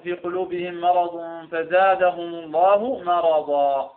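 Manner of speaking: slow recitation ending "مرضا" as "maradaa", long open vowel, no n; stopping on مرضا. Shown as a demonstration. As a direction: recite slowly and drop the final tanween of "مرضا" for a long "aa". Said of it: "إذا وقفنا على مرض".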